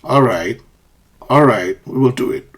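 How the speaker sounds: firm, downward "All right"; firm agreement. Shown as a demonstration. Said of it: "A firm agreement".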